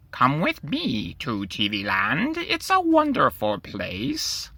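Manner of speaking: high, eerie voice of a little TV-headed creature; creepy TV creature. Acted. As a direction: lure the boy in like a creepy gadget come alive. TV creature speaks to Timothy.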